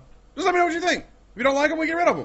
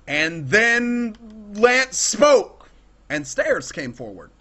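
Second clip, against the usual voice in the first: mock scripture; 3 semitones lower, much slower than usual. Mock scripture about himself.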